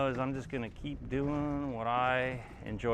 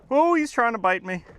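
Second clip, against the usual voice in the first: surprised; 8 semitones higher, 6 dB louder than usual. Real, not acted. Fish snapping at him.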